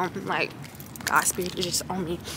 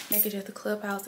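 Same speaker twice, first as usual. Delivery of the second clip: much softer, almost to herself; quiet recap; 11 dB quieter than usual. Shown as a demonstration. Vlogger reminding herself of the errand, quietly. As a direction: mutter the reminder under her breath.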